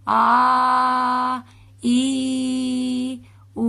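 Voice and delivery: آ, ای, او read as clean single vowels; fluent hamza reading. Shown as a demonstration. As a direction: say each vowel crisply. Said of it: "اسے ہم حمزہ پڑھیں گے". (صاف آواز میں آ ای او)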